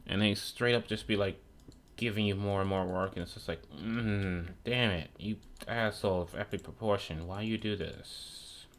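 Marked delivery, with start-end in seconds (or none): 3.7-8.7 grumpy grumble. Retold or imitated. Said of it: "I sound like a grumpy lot".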